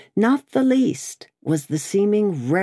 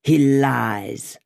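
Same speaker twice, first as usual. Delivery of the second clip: angry cry; 3 semitones lower than usual. A narrator's reading. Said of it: "cried the smith".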